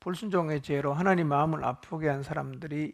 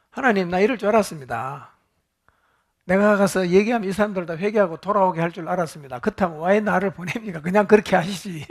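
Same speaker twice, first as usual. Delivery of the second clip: Jonah grumbling at God, a bit louder; mock angry complaint; 4 dB louder than usual. Preacher voicing Jonah's indignant protest to God, mildly heated. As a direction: act out a sulking prophet, mildly. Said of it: "열받아서 그랬어요".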